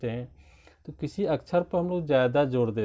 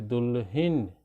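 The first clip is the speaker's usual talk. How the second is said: दुल्हिन with weight on the final हिन; stressed syllable. Shown as a demonstration. Teacher giving stress examples, दुल्हिन with stressed ending. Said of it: "ज़्यादा विशेष बल लगा के बोलते हैं".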